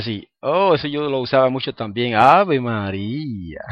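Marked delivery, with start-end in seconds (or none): 2.2-3.6 slow surprised exclamation. Retold or imitated. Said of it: "una expresión de asombro".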